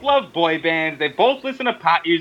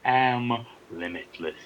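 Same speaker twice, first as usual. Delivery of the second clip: wrestling catchphrase. Acted. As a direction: declaim it like a wrestler's promo.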